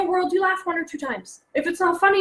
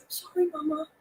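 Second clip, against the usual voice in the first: put-on chastened child; 8 dB quieter than usual. Chastened son apologizes to mother.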